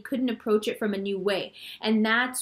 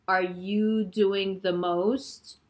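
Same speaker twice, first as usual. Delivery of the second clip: 1 incredulous; much slower than usual. Retold or imitated. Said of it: "you're like".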